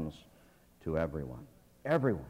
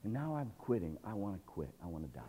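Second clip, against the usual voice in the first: softer, sinking into despair; fading despair; 3 semitones lower, 12 dB quieter than usual. Acted. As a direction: let the voice die away. Elijah giving up.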